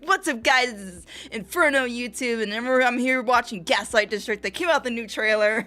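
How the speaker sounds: a hint of a hyped intro voice, laughing at the end; lightly hammed-up channel greeting; mock hyped YouTuber. Streamer mimics the reactor's energetic channel greeting. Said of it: "can't put that kind of energy".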